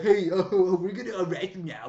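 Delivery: mock arresting shout. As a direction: holler it as the dude making an arrest. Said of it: "And the dude's like".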